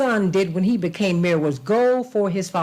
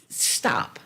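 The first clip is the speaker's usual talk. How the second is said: hushed stop; 5 dB quieter than usual. Real, not acted. Urging listeners to stop and think.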